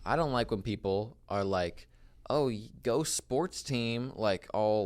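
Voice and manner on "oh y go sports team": mocking cheer. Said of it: "like, mockingly".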